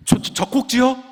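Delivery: stammered, high-pitched astonished question; shocked. Retold or imitated. Patient hears the doctor's odd diagnosis, shocked. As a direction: blurt it out loudly, tripping on the first word. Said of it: "너무 저도 놀란 거예요".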